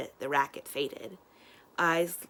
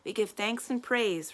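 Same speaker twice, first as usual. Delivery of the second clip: group response; 6 semitones higher than usual. Acted. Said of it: "responded his audience".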